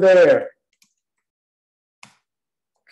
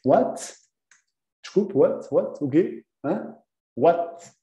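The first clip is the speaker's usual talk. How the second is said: short questioning what with a rise; puzzled what; 3 semitones higher, 4 dB quieter, slower than usual. Shown as a demonstration. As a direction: ask what as if you didn't hear. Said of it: "então pode ser só what?".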